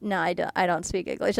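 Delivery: low-key fake innocence; retelling the stare-down with the hotel worker, deadpan; deadpan refusal. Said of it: "looking a guy dead in the eye".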